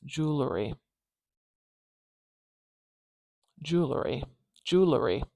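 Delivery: "Jewelry" said as JOOL-er-ee; "Jewelry" with a schwa between the l and the r; "Jewelry" in three syllables. Shown as a demonstration. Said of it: "I would do this like this".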